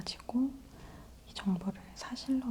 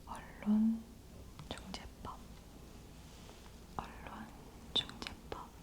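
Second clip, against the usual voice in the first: slow whispered repetition; 5 dB quieter, slower than usual. Acted. ASMR trigger word repetition.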